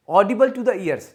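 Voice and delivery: slow and loud wrong phrase. Shown as a demonstration. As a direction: stretch out the mistake. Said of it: "जैसे हम लोग".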